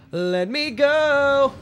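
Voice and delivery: high, slow, whining plea; high whiny plea. Pretend. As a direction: beg to be let go, whining. Stuck in the ice, pleading.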